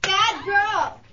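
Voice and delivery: harsh barking commands. Acted. Dominatrix scolding while paddling.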